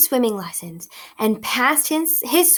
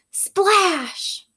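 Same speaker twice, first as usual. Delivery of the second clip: splashy read-aloud; 9 semitones higher than usual. A narrator's reading. Read-aloud splash sound word.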